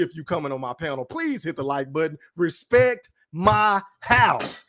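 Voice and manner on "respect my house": lightly put-on voice, slow separated words; a slow, emphatic demand with a hint of impression; Martin Payne voice. Host demands respect from panel guests, lightly imitated voice. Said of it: "in my Martin Payne voice".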